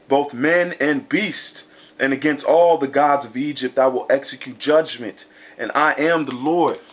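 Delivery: measured, declaiming scripture reading. Acted. Preacher reading verses to his listeners, declaiming. Reads Exodus twelve further.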